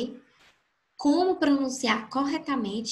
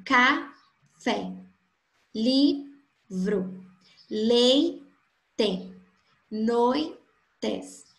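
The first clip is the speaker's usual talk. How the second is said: syllable demo; much slower than usual. Shown as a demonstration. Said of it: "que possuem duas sílabas".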